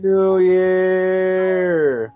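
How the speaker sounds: new year countdown crowd. Acted.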